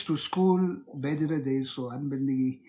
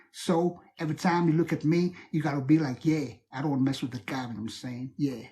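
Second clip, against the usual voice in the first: put-on lower, rapper-style African American accent; 4 semitones lower, faster than usual. Asked for accents, plays a rapper, African American accent. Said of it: "you know, those rappers".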